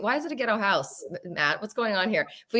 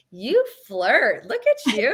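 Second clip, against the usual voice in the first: high playful teasing tone; 3 semitones higher, 3 dB louder, much slower than usual. Pretend. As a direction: tease them like a flirt. Teasing a flirting viewer.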